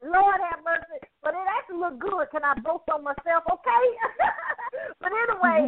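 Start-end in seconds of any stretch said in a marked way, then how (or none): 3.9-5.0 high giggle, trailing off softer; giggling laugh. Real, not acted. Host giggling after boasting on herself, high giggle.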